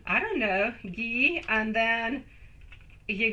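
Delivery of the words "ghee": "Ghee" drawn out slowly as its own syllable; slow syllable demo. Shown as a demonstration. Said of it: "You gotta say it in three, three phases".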